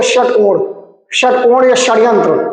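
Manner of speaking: "षटकोण" and "षड्यंत्र" with a retroflex ष; tongue lightly touching the back of the palate for ष in "षटकोण"; retroflex sha. Shown as a demonstration. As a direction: demonstrate the ष of "षड्यंत्र" from the roof of the mouth. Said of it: "तालु है उसके पीछे वाले भाग से हल्का सा टच".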